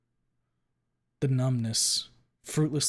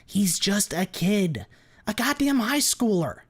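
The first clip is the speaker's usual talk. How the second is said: slow, high, loud outraged yell; furious shout; 10 semitones higher, 7 dB louder, slower than usual. Acted. Glenn defending the kid to Ripley, furious shout. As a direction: bellow it, outraged on the kid's behalf. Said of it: "Glenn shouts".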